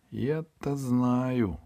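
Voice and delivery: hint at a secret; mysterious. Acted. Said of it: "загадочно ответила девушка". (загадочно, не спеша)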